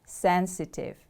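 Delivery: "Sensitive" with the stress on SEN; stress on first syllable. Shown as a demonstration. Teacher models the word for learners, stress on SEN in "Sensitive". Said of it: "The stress is on the first syllable".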